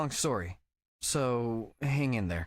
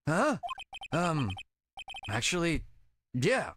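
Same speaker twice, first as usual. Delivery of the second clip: much higher, puzzled whine; baffled goofy buddy; 4 semitones higher, slower than usual. Acted. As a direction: squeak it out in disbelief. Voices Larry, baffled.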